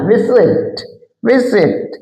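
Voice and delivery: विजिट with the closing "it" said lightly; light final syllable. Shown as a demonstration. Teacher showing that "it" is said lightly, first-syllable stress in विजिट. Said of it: "आईटी हल्का बोलना है".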